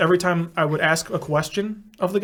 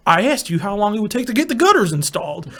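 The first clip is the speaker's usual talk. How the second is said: raised, insistent retort; mock exasperation; 4 semitones higher than usual. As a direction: act out testy insistence on a prank call. Acted argument with gutter man.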